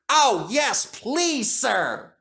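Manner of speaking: bursting with joy at the offer; excited. Acted. James answering Sir Topham Hatt, high and thrilled. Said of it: "James was excited".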